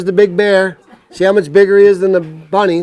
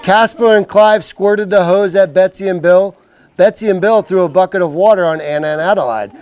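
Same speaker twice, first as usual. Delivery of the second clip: put-on reading to children. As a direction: read it like a bedtime book. Reads picture book to kids.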